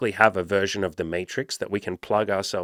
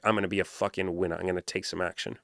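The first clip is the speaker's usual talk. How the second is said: muttered to himself, much softer; quiet resolve; 7 dB quieter than usual. Shown as a demonstration. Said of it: "I would just go".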